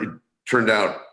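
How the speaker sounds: ordinary delivery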